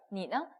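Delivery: 너 simply set down after 니; long 니, then 너 released short and light; neutral tone demo. Shown as a demonstration. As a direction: drop 너 lightly, without a tone. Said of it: "그냥 내려놓으시면 돼요".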